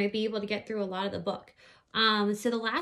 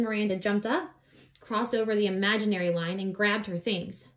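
put-on lively read-aloud voice for children; story narration; 3 dB louder than usual. A narrator's reading. Reading a children's book aloud.

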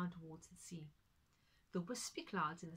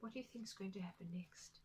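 whispered question; 6 dB quieter than usual. Real, not acted. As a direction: lean in and whisper. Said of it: "asks listeners in whisper".

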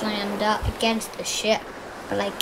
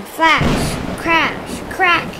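dramatic storm words; 6 semitones higher, 5 dB louder, much slower than usual. A narrator's reading.

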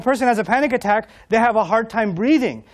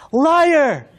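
crowd shout; 6 semitones higher, 4 dB louder than usual. Retold or imitated. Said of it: "two thousand people said".

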